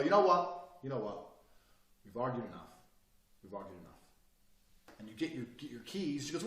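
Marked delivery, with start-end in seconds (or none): 0.0-0.8 heated. Retold or imitated. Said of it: "You get to the point and go". 0.8-1.2 sudden soft, lower voice; calm and quiet. Retold or imitated. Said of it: "it's the change in body language". 2.1-4.0 soft, low, fading; calm and quiet. Retold or imitated. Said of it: "it's the change in body language".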